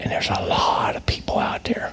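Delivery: hushed, very quiet, barely voiced whisper. Speaker talks to listeners, dropping to a whisper. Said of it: "Sorry for whispering".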